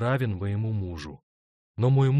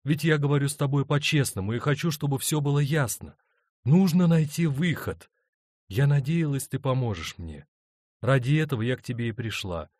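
lightly voiced woman, a touch higher; a hint of a torn wife begging for help; pleading wife; 5 semitones higher, 4 dB louder than usual. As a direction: plead gently for a way out. Paula pleads with both men.

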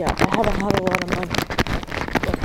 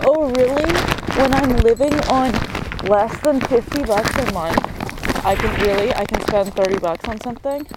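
sarcastic anger; 2 semitones higher than usual. Real, not acted. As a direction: throw it back at him. Sarcastic angry reply.

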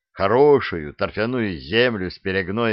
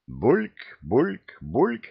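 rising glug, glug of pouring; gurgling pour; 4 semitones higher, much slower than usual. A narrator's reading. The oak pours two glugs into a mug. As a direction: mimic liquid glugging into a mug. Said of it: "бульками".

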